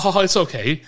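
hammed-up British "ha ha"; mock British. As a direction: imitate a Brit laughing it off. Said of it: "I'm British".

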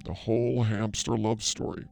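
slow, soft fortune-teller voice; a psychic slowly intoning a solemn answer, slow and soft; mystic pronouncement. Acted. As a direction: intone it like a seer in a trance.

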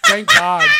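very high, loud thank God; relieved exclamation. Retold or imitated. Adult singer relieved she never got the solo, shrieking. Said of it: "I was like".

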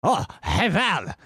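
proud grand reveal, half-laughing; triumphant whisper. Retold or imitated. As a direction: announce yourself as the Overlord with glee. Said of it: "he might be like".

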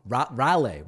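Raleigh said as "RAL-ay", ending like "lay"; fumbled pronunciation attempt. Shown as a demonstration. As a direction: stumble on the first syllable, then end Raleigh on "ay". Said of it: "what is the right pronunciation".

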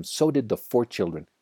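plain reading voice

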